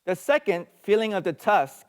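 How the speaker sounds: poem recitation. Acted. Preacher reading the elephant poem to the class, loud recitation. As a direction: read the verse out with projection.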